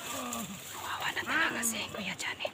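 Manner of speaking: slow hushed whisper. Real, not acted. Sneaking past enemies in game.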